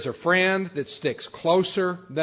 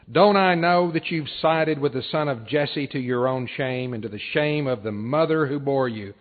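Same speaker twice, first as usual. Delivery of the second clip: loud, raised-voice angry rebuke; angry Saul; 3 semitones higher, 4 dB louder than usual. Acted. King raging at his son Jonathan at the table, angry. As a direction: read it out as a forceful, angry condemnation. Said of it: "Saul's anger flared up at Jonathan".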